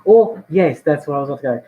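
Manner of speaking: put-on posh British voice; posh British accent, punched at the start. Shown as a demonstration. Differentiating English accents, posh British accent. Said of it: "like, the posh British accent".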